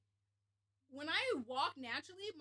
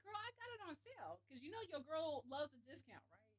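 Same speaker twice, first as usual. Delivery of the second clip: put-on sassy girl voice; 5 dB quieter than usual. Playing herself sassy.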